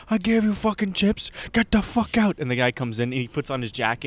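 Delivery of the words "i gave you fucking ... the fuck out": high-pitched imitation of an angry worker; mock exasperated dismissal, high-pitched; irate shop worker. Acted quarrel, worker's reply.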